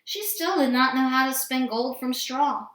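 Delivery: plain reading voice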